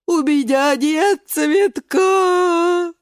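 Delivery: high, loud, very slow wail; wailing shout. Acted. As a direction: cry it out in despair. Beet sobs loudly. (свёкла кричит сквозь слёзы)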